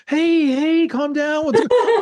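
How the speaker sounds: high mock soothing Pacino; Pacino calming. Mimicking Pacino calming Frank after screaming. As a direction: switch to fake calm. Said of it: "And now he's like".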